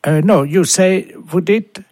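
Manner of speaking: high-pitched mock Englishman; put-on English caller. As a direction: correct the pupil in a high English accent. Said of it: "vous serez appelé par un Anglais". (faux accent anglais, voix aiguë)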